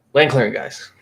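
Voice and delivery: quickly rattled-off video opener; rapid-fire hook. Shown as a demonstration. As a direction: run the words together as a quick call-out. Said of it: "I just say it as fast as I can".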